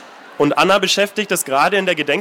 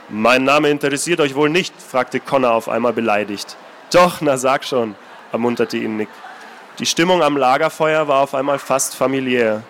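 even, measured reading voice; calm storyteller reading a novel aloud; story narration; 2 semitones lower than usual. A narrator's reading. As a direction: read it like an audiobook narrator. Author reads novel aloud.

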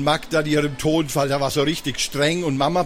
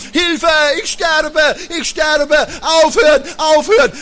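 laughing while being tickled; 9 semitones higher, 6 dB louder than usual. Acted. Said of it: "rief Magda unter Lachen".

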